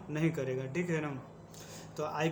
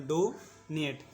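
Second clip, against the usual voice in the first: "डोनेट" slowly, drawing out डो before नेट; slow teaching repeat; much slower than usual. Shown as a demonstration. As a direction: stretch and separate the halves of "डोनेट". शब्द तोड़कर दोहराना. ("डोनेट" को धीरे, डो खींचकर और नेट अलग)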